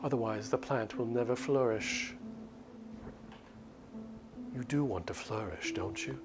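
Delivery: lightly voiced vampire, coolly toying with her prisoner; a hint of a cruel, amused immortal; vampire captor.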